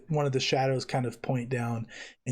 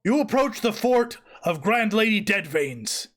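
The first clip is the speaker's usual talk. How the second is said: orc guard proclamation; 6 semitones higher, 3 dB louder than usual. Acted.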